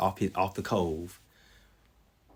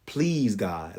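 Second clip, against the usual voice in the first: slow pleading prayer; slower than usual. Retold or imitated. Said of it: "the only thing I could ask God for was".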